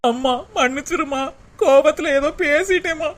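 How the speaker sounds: tearful plea. Acted. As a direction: beg forgiveness through tears. Daughter begs her mother's forgiveness. (அழுதுகொண்டே மன்னிப்பு கேட்டல்)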